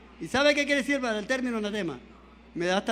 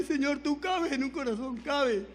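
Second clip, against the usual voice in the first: retold tearful prayer; 3 semitones higher, 4 dB quieter, slower than usual. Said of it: "Esa madrugada llorándole".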